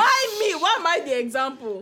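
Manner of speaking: indignant outburst, starting high; angry protest. Real, not acted. Friend picked as the example, angry protest. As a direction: protest at being singled out. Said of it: "you sounded really angry".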